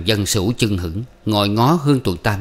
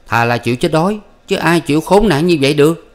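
raised, louder, protesting youth; indignant young man; 7 semitones higher, 5 dB louder than usual. Acted. Xuyên rejecting the elder's shameful offer, indignant. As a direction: push back hard, offended.

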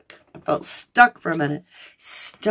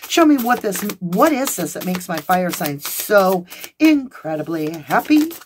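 excited client; 2 semitones higher than usual. Retold or imitated. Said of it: "You're like".

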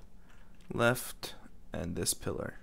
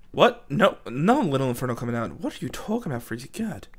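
mock outrage. Gamer arguing with himself, mock outrage. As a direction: scold yourself in disbelief.

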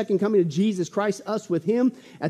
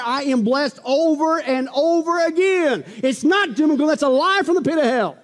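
impassioned preaching; 5 semitones higher, 4 dB louder than usual. Real, not acted. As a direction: preach it with rising force. Preaches at full force.

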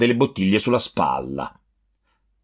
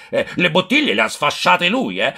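higher, accusing outcry to the crowd; hypocritical yell; 7 semitones higher than usual. A narrator's reading. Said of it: "cominciò a urlare". (accusa gridata alla folla, più acuta)

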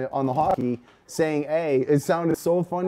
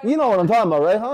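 higher, louder hammed-up Canadian; mock Canadian accent; 7 semitones higher, 4 dB louder, much faster than usual. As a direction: tease with a big Canadian "huh". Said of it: "and huh?".

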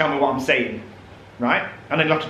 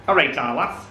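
Yorkshire greeting. Shown as a demonstration. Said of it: "this one".

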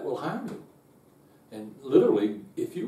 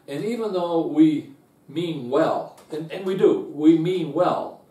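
emphatic preaching; 4 semitones higher, 6 dB louder than usual. Acted. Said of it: "preacher stressing point".

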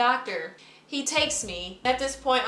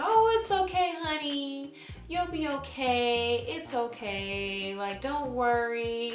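higher, slow, gentle reassurance; soothing nurse; 3 semitones higher, slower than usual. Retold or imitated. Nurse comforting a crying patient in her ear, lightly voiced soothing. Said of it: "the nurse saying in my ear".

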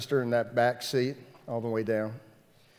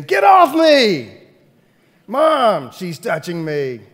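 put-on shrill kid yelling, tattling to mom; whiny tattling little sibling; 6 semitones higher, 11 dB louder, slower than usual. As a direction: whine like a kid stuck in the back seat. Kids fighting in back seat.

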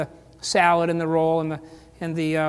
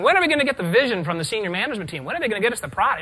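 raised, impatient mock demand; mock complaining; 3 semitones higher, much faster than usual. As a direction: imitate staff pestering management for answers. Mimicking staff complaining to management.

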